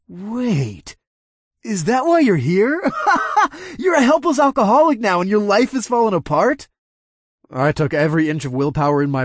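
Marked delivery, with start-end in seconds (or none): 0.1-6.7 high, laughing sneer; mocking laughter. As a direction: taunt through cackles.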